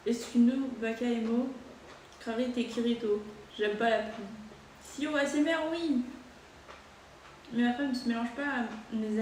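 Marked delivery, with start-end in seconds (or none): 0.1-3.2 made-up Japanese words, said slowly; mock Japanese gibberish; fake Japanese. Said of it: "c'est pour toi le faux japonais".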